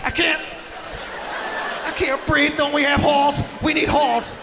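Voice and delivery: mock whiny plea. Choking boy begging his parents for halls, mock whiny. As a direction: plead for cough drops. Kid pleading under towel.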